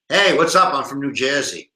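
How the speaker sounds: badly faked New Jersey accent; terrible New Jersey accent. New Jersey arriving to join the debate, bad Jersey accent. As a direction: greet them in hammy Jersey tones. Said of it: "That was a terrible accent".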